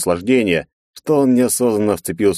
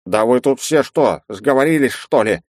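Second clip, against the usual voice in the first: growling in rage; 5 semitones higher than usual. A narrator's reading. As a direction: growl it out, enraged. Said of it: "в бешенстве прорычал".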